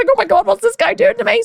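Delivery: high exasperated wail; high overwhelmed cry; high disbelief. Retold or imitated. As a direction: whine at the coach's cruelty. Panicked inner thought.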